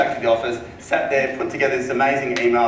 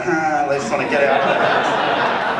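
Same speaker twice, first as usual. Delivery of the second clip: slow "Huh" through a fixed smile; forced smile; 3 semitones higher, 5 dB louder, slower than usual. Retold or imitated. Agent desperate to leave the owners, smiling through it. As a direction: hide the urge to leave behind a smile. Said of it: "when you're smiling and you're just like".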